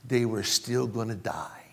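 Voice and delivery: breathy hushed whisper on "they were still gonna die". Acted. Preacher hushes the congregation about death, whispering. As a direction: lean in and whisper it.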